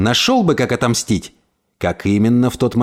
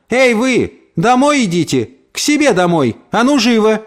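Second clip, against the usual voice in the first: high, brusque calling out; sharp order; 9 semitones higher than usual. A narrator's reading. Maid sends the neighbour back home, sharp order. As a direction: shoo them off indignantly.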